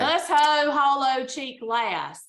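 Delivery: Southern drawl on the phrase; Southern accent. Pretend. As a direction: read it like a Southerner. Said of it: "The Southern accent works".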